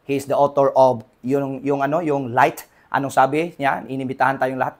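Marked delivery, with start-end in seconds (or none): none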